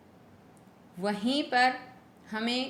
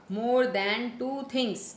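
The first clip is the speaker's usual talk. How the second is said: very slow, stressing more; slow classroom dictation, more stressed; much slower than usual. Shown as a demonstration. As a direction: repeat it word by word for the class. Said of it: "teacher repeating slowly".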